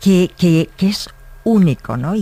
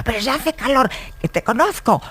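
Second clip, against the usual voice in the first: mock scolding mother, higher and insistent; a nagging mum repeating the old saying; 8 semitones higher than usual. Madre que regaña a su hija por quitarse el jersey, con tono de reproche fingido.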